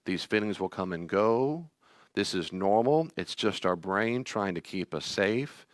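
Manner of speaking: gentle reassuring inner voice; calm, soothing parent to a scared child; tender self-talk. Retold or imitated. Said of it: "So when he gets triggered and worked up".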